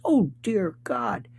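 soft, slow whispered sigh of despair; exasperated whisper. Real, not acted. Host whispering in despair at the list. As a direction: breathe it out under your breath.

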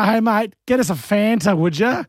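ordering in a plain Aussie twang; everyday Australian mate-to-mate request; broad Australian accent. Acted. Aussie bloke asking a mate for a drink, Australian accent. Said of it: "Considering we go".

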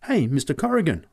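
high-pitched astonished call; astonished kid getting attention. A narrator's reading. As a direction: call out in sudden amazement. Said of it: "I said in astonishment".

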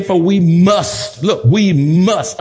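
must slowed and stressed. Shown as a demonstration. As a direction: lean on "must", slowly. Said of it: "underline must, that's emphatic".

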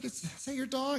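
put-on talking down sweetly to a little kid. To his buddy's three-year-old, a lifted sing-song kid-talk voice. Repeats question to toddler.

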